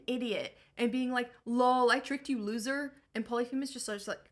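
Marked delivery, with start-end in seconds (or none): 1.4-2.9 louder, smug trash talk; gloating taunt. Acted. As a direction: yell the gloat across the water. Odysseus taunts the Cyclops.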